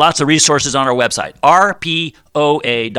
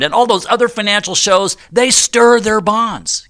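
mock Bond disdain; 5 semitones higher than usual. Mocking other shows, Bond joke.

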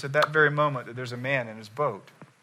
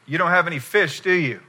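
"You don't have any fish, do you?" higher, expecting a no; raised pitch, "do you" tacked on as a tag; leading negative question; 4 semitones higher, 5 dB louder than usual. Acted. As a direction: ask it already expecting "no". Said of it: "ask a question that implies a negative answer".

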